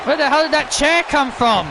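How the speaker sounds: shocked wrestling commentary; startled play-by-play. Acted. Commentator baffled where that chair came from, startled play-by-play. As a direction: cry out in surprise at the ringside. Calls a chair appearing live.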